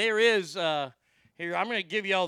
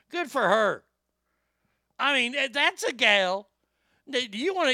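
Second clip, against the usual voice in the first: excited praise; 5 semitones higher, 3 dB louder than usual. Real, not acted. Keeps raving about the anchor.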